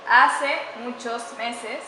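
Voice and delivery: "hace muchos meses" very slow, stressing "hace" with a rise; corrected phrase. Shown as a demonstration. Teacher modelling the corrected phrase for students, very slow with stress on "hace". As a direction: spell out the correct "hace" slowly and clearly. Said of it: "Debería decir".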